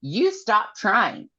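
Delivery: high, put-on Amren voice; mock Amren. Amren scolding Nesta in a high put-on voice. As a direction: scold her as Amren, hammed-up. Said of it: "Amren tells her".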